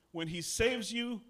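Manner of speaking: slow emphatic. Shown as a demonstration. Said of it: "Say that with me".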